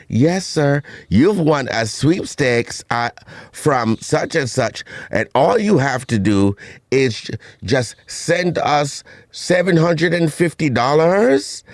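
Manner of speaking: put-on drawn-out phoney-accent sweepstakes pitch; fake non-Jamaican accent. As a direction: do a bad Cockney-like cover for a Jamaican accent. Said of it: "trying to sound like they're not Jamaican".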